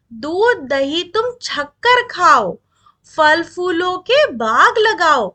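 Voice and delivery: put-on slow, rhythmic verse reading for kids; poem recitation. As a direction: linger on each word as a class poem. (धीमी लय में कविता पाठ)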